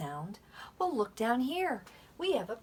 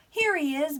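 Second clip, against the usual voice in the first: mock surprise; 7 semitones higher, 5 dB louder than usual. Gasp at finding letter.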